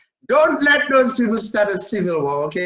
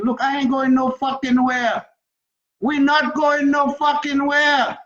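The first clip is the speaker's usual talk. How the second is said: defiant shout; 5 semitones higher than usual. Real, not acted. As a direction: shout it out, not going anywhere. Defiant outburst about being sent back.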